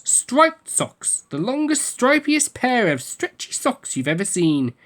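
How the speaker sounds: high, slow, wide-eyed wonder; amazed. A narrator's reading. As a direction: marvel at every word. Marvelling at long socks.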